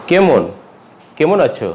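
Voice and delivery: কেমন with closed "e"; closed first vowel. Shown as a demonstration. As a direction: say কেমন as "kemon". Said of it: "কেমন উচ্চারণ হবে না".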